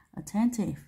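"Attentive" with the middle syllable "ten" stressed. Shown as a demonstration. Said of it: "âm nhấn của từ ten". (nhấn âm "ten" trong "Attentive")

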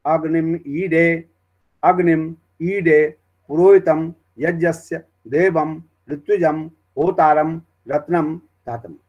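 slow word-by-word Vedic chant; slow krama path chant; krama recitation. Shown as a demonstration. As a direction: recite each word pair slowly and evenly. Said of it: "क्रम में क्या है कि".

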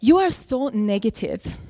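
slow, deliberate mother impression; lightly voiced mother, words drawn out; mother's voice. Daughter redoes mother's line for critics, slow deliberate imitation. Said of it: "you did her accent wrong".

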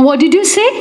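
rising surprised questions, rushing at the end; shocked disbelief. A narrator's reading. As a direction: she can't believe her ears. Narrator shocked at news.

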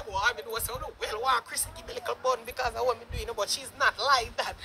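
imitating him low and soft, quick and whiny; mock whiny voice. Mocking the guy from the video in a soft, low whine. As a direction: take off his plea in a soft, low mumble.

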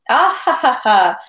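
high bursting hearty laugh; merry laughter. Acted. Captain laughing at Pierre's joke, merry burst. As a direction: laugh out loud, delighted. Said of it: "burst into merry, sanguine laughter".

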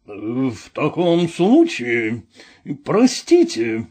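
slow, offended words spoken through the nose; huffy and nasal, slowly. Acted. Vorobyaninov breaks off the deal with Ostap, nasal and slow. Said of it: "сказал Воробьянинов в нос".

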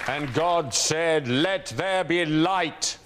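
slow, grand scripture reading; booming biblical narration. Acted. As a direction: read it like the Bible, slowly.

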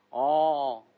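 usual speaking voice

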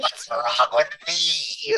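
very high, slow squeaky voice; Garterton voice. Acted. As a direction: whine it like a tiny odd creature. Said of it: "your character voice".

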